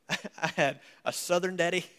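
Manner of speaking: laughing. Real, not acted.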